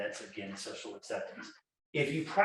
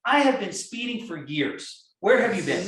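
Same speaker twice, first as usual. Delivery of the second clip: mock impatience; 5 semitones higher, 6 dB louder than usual. Joking to police officer.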